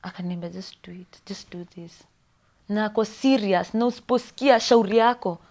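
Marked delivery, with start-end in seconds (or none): 0.5-2.0 whispered. Retold or imitated. Nurse's curt order retold.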